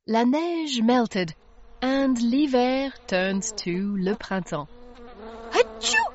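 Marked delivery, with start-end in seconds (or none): 5.6-6.0 high squeaky sneeze; a sudden little achoo. Acted. Tilly sneezing as a bee lands on her nose. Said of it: "cried Tilly".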